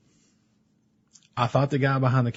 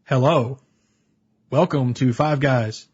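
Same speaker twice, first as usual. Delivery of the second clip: slow, overly formal counter greeting; mock-polite robotic order taker; impression of the robotic cashier; slower than usual. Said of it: "I will give my best impression".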